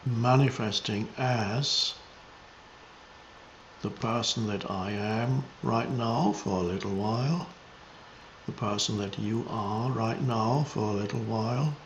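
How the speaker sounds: meditative, spacious delivery; contemplative spiritual teaching. Real, not acted. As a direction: reflect unhurriedly, letting each phrase settle.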